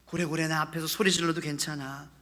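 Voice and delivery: comforting, tender permission; gentle reassurance. Acted. God reassuring after the declarations.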